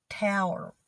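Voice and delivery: "Tower" said as one syllable, almost tire; Southern "Tower", clipped; Texas tower. Shown as a demonstration. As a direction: flatten "Tower" to one beat. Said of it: "I say tire a lot for tower".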